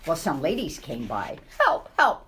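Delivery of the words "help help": higher, louder cries of help; old mouse calling for help, higher and louder; old mouse crying for help. Acted. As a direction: cry out in a panic. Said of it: "cried the old mouse".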